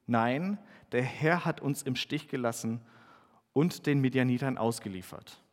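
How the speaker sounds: measured Bible reading with lightly acted voices; scripture reading. Pastor reads Gideon's story aloud to the congregation, measured reading. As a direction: read the passage to the congregation.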